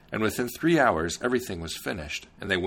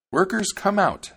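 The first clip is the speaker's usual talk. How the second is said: loud, high summons to the workers; cried out; 12 semitones higher, 6 dB louder than usual. A narrator's reading. Princess summons the gnomes from the ground, loud high call. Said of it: "she cried".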